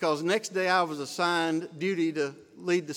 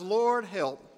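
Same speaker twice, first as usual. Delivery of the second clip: urgent prayer; 3 semitones higher than usual. Retold or imitated. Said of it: "I prayed as I shut my eyes".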